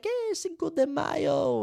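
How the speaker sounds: high, slow party cheer; festive cheer. Retold or imitated. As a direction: greet the holiday like a party guest.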